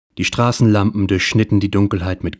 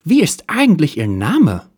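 much higher, louder put-on detective voice; hard-boiled detective; 10 semitones higher, 4 dB louder than usual. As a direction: play the cool private eye, hammed up.

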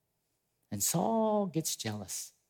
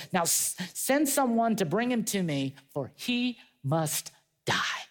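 Saul's death order; 5 semitones higher, slower than usual. Retold or imitated. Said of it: "And so Saul says".

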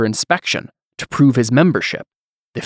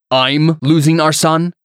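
slow, higher, louder retort; angry snap; 5 semitones higher, 4 dB louder, slower than usual. Acted. Husband snapping back at his wife, slow angry retort. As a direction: throw her words back at her. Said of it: "Antonius snapped".

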